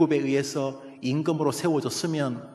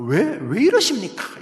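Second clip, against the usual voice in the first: higher, pleading "why" to God; anguished questioning; 4 semitones higher than usual. Acted. Habakkuk questioning God in chapter one, anguished questioning. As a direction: demand an answer, mildly anguished. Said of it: "하박국의 절규와 물음입니다".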